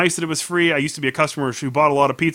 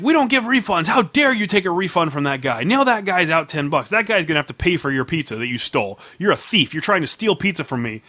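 raised-pitch mock tirade, little extra volume; screaming manager; 4 semitones higher than usual. Manager accuses customer of stealing pizza, mock screaming. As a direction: imitate an outraged manager accusing a thief. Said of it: "he's screaming at me".

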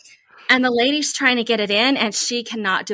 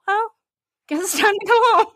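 resigned sigh; 10 semitones higher, faster than usual. Retold or imitated. Resigned ending of trip.

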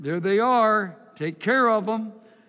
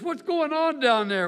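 calling down; 9 semitones higher, 4 dB louder than usual. Retold or imitated. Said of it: "one of them says".

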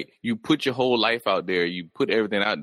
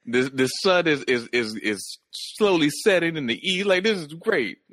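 mock storybook idyll; 7 semitones higher than usual.

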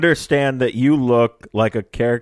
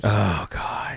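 whisper; 5 dB quieter than usual. Real, not acted. Whispered aside.

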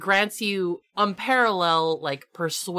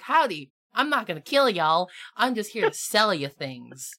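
easygoing Southern salesman reassuring customers; lightly put-on Southern twang; Southern accent. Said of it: "he always talks in a southern accent".

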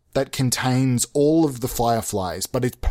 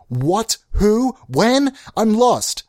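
higher, louder, bewildered questions; mock confused listener; 9 semitones higher, 3 dB louder, much slower than usual. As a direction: play a baffled listener asking fast.

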